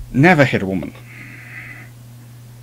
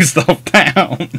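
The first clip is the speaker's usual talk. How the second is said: laughing; 4 semitones higher than usual. Real, not acted. Laughs at the corgi story's punchline.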